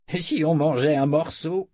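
a hint of an eager old sorcerer; Zed. Old wizard continues his exclamation. (vieux sorcier légèrement joué)

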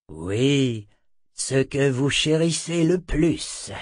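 sorcerer Zed, lightly voiced. Zed announcing the curse to his attackers, slow and deliberate.

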